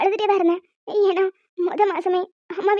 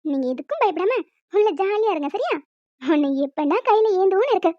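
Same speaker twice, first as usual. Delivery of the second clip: put-on tender baby talk. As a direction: speak gently to your unborn child. Mother talking to her unborn baby. (வயிற்றில் உள்ள குழந்தையிடம் மென்மையாக, கொஞ்சலாக)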